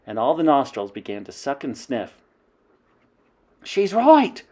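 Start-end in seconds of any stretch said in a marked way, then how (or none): 3.6-4.4 high, loud agreement; crying out. Acted. Another witch agreeing, excited. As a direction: back her up eagerly. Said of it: "cried another voice".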